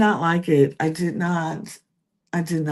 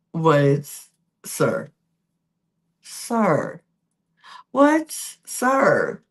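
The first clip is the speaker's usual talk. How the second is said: mock outrage; much slower than usual. Real, not acted. Scolding Tyreek's double kiss.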